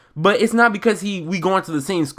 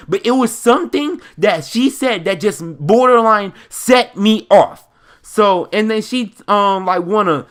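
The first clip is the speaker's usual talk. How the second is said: animated storytime rant. Real, not acted. Building anger retelling the incident.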